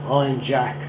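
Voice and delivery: two words in a Geordie accent; a quick Geordie-accented I'm Jack. Shown as a demonstration. Lecturer tries Geordie for the audience, Geordie accent. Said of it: "I won't attempt the accent ... I can do two words".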